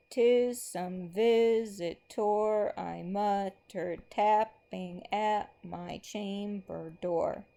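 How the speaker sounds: slow, rhythmic recitation marking every beat; slow poem reading. Acted. Teacher reads a poem line to the class, slow and rhythmic. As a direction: read it out as if tapping the meter.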